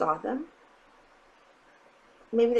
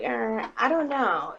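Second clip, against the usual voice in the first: evasive shrug; 2 semitones higher, slower than usual. Retold or imitated. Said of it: "just being like".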